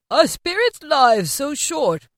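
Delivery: put-on high, slow anxious old man; worried question. A narrator's reading. Scrooge asking the aging ghost, high and anxious. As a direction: ask with dawning fear. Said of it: "asked Scrooge".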